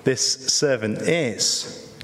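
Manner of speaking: a mild mock-indignant reader's reaction; indignant aside. Congregation reacting to the servant, in mild mock outrage. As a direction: shake your head lightly at the rascal. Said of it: "we're meant to read that and think".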